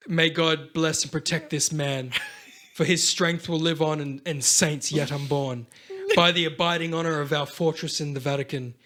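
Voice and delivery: a touch of solemn ceremony; mock priest's blessing. Acts priest blessing the weapons.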